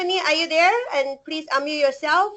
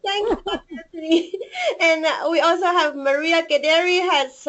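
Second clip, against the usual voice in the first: teary; 4 semitones higher than usual. Real, not acted. Moved by the speech.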